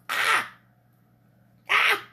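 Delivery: excited squeal. Real, not acted. Overwhelmed delight.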